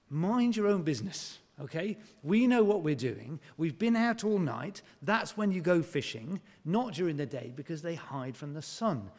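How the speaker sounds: grumbling fisherman. Retold or imitated.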